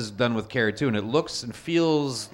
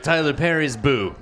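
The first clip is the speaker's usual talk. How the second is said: announcer voice; 5 semitones higher, 6 dB louder, slower than usual. Pretend. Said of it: "I think it's pronounced".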